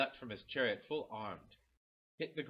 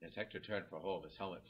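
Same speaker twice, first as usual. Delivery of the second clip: ordinary delivery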